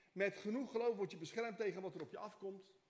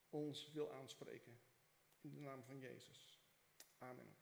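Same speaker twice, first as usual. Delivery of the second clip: prayer; 3 semitones lower than usual. Acted. Pastor prays with the congregation, hushed earnest prayer.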